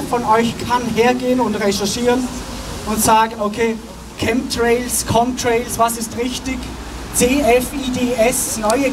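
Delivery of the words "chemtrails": ordinary talk, nothing marked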